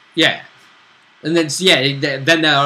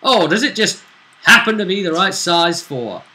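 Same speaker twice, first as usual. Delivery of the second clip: retold question; 5 semitones higher, 5 dB louder than usual. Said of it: "and I remember what you said".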